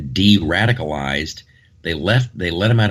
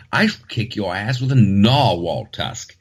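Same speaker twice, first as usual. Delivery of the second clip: mock British bravado. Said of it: "I say".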